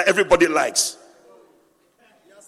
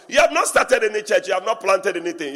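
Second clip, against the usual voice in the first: loud scornful jab at the flattered one; mock outrage at empty praise; mocking rebuke; 2 semitones higher, 4 dB louder than usual. Real, not acted. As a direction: call him out, louder, with scorn.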